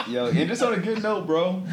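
laughing. Real, not acted. Laughing while urging.

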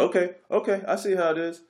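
high, peeved mimicry of the customer; mock petulant customer voice; mock sulky customer. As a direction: whine it like a sore loser. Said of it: "He's like".

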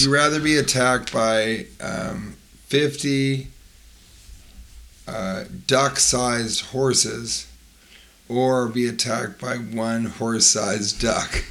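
slow and drawn out, measured; slow deliberate. Shown as a demonstration. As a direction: spell out each option slowly. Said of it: "say it again".

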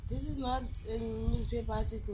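laughing. Real, not acted. Laughing while correcting.

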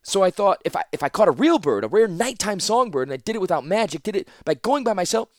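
flustered rush of excuses. Acted. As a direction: blurt it all out nervously. Teferi blurting anxious excuses.

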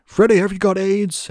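high, slow put-on journalist voice; lightly voiced nosy reporter; mock intrusive question; mock pushy journalist. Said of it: "everybody was always like".

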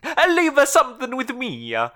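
high cartoon plumber voice; squeaky, hesitant video game hero; Luigi voice. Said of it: "This is the Luigi voice".

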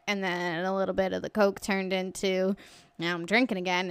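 run-on confession, one clause tumbling into the next; fast talking. Retold or imitated. Friend confessing his relapse to mom, fast talking. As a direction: imitate a man rattling on without a break. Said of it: "He's talking this fast the entire time".

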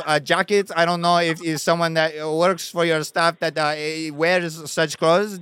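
put-on French accent on a prank call; halting French tourist voice. Prank caller to store clerk, mock French accent. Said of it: "you started doing a French accent".

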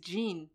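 "Jean" said the English way, like "jeen"; English pronunciation. Shown as a demonstration. Quoting people who anglicise a French name, English pronunciation. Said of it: "dire Jean en anglais".

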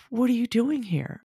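retold shock. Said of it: "we were both so shocked".

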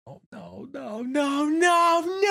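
escalating high no's; rising protest. Real, not acted. Protest at using ChatGPT.

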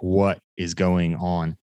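slow, baffled question; drawn-out disbelief; slow bewildered. Retold or imitated.

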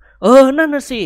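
high, slow weary agreement; agreeing character voice. A narrator's reading. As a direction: drag it out, worn out. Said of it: "นิกรเห็นพ้องด้วย". (เสียงตัวละครเห็นด้วย เหนื่อยอ่อน)

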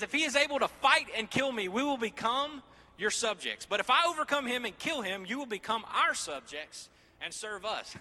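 high, loud mocking taunt as Goliath; giant's challenge. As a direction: shout the terms across the valley. Voicing Goliath's terms.

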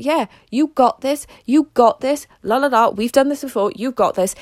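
pep yourself up like a cheerleader in your head; inner cheerleader. Retold or imitated. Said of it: "an amazing little fucking cheerleader".

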